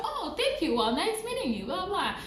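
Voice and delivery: high, chirpy retold thanks; polite gushing. Applicant thanking the man who set up the appointment, politely gushing.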